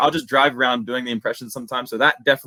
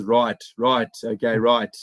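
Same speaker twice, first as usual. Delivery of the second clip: light imitation of a South African fighter's clipped agreement; tossed-off fighter catchphrase, only lightly put on; Dricus du Plessis impression; slower than usual. Shown as a demonstration. Explaining how he catches a fighter's verbal habit, lightly imitating it. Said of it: "like, Dricus is".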